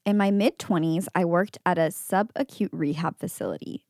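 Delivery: measured read-aloud voice; composed narrator reading from the page; story narration. A narrator's reading. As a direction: read out a first-person account evenly. Reads a posted story aloud.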